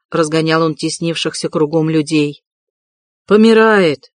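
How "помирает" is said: higher alarmed shout from the crowd; a bystander's shout. A narrator's reading. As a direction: call out that she is dying. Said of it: "закричал кто-то".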